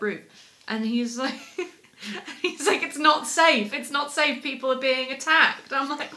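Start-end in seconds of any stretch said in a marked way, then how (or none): 2.8-5.7 worried warning. Retold or imitated. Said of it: "urgency in this man's voice".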